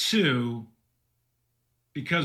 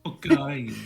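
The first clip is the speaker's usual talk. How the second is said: Boccari said Italian style; Italian Boccari again, playful; Italian accent; 3 semitones lower than usual. Pretend. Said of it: "the good Italian Boccari".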